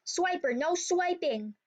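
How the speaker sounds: put-on chirpy kid-show scold, lightly done; a lightly imitated Dora line; imitating Dora's catchphrase. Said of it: "Dora says".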